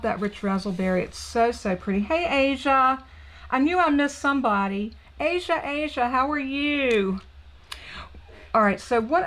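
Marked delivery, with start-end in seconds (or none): 2.0-7.2 delighted greeting. Real, not acted. Spots a viewer and greets her.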